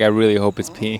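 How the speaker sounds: bone-dry, dry, low deadpan delivery. Retelling a scene from a show, imitating a dry delivery. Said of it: "just says so dryly at the camera".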